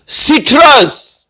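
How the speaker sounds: سٹرس drawn out slowly, each sound clear; teacher modelling سٹرس; slow careful pronunciation. Shown as a demonstration. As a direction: spell out سٹرس syllable by syllable. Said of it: "اس کا تلفظ".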